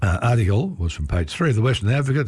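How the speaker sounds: hoarse, croaky reading voice; reading through a croaky throat. Real, not acted. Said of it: "Apologies for the croaky voice".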